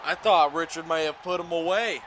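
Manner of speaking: excited call slipping into a Southern accent; slight Southern accent. Real, not acted. Commentator thought Richard had won, accidental Southern accent. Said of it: "I don't know where that accent came from".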